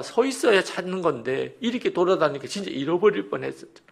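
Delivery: high, upset parental reproach; mock-tearful scolding, pitched high; tearful anger. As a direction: imitate a worked-up father close to tears. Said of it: "울먹거리면서 아이를 막 너무 화가 나니까".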